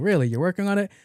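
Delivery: high, rising sassy question; sassy disbelief. Retold or imitated. Doctor doubting a patient's effort, sassy disbelief. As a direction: question them with mock surprise and sass. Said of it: "There's a lot of sass there".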